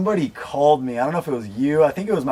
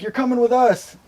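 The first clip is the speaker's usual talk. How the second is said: higher-pitched imitated African accent; 10 semitones higher than usual. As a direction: mimic an official with an African accent. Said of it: "they got this crazy African accent".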